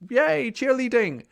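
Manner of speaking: slow, high, sing-song yay; mock cheerleader. Past self cheering her on as a hammed-up cheerleader. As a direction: cheer it like a pompom squad, half in jest. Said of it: "and he's like".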